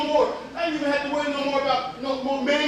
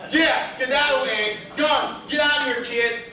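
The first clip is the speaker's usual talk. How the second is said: mildly raised, punchy send-off; brisk dismissive call; shooing away; 3 dB louder, slower than usual. Acted. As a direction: shoo a pesky kid off.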